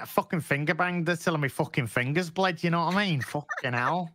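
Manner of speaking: mock Mancunian lad bragging to a mate; Manchester accent. Shown as a demonstration. Lad bragging to his mate, Manchester accent. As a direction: put on a Manchester lad's accent. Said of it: "not Manchester, like".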